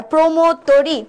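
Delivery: "প্রমোদ তরি" said "promod tori", o like ও; closed o pronunciation. Shown as a demonstration. Teacher confirming the right option, "প্রমোদ তরি" with closed o. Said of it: "আমরা একটাই পাইলাম সঠিক উচ্চারণ".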